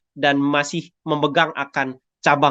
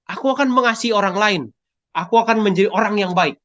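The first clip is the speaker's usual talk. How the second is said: desperate pleading; 3 semitones higher than usual. Acted. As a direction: beg God for rescue, promising everything. Jack begs God, making promises.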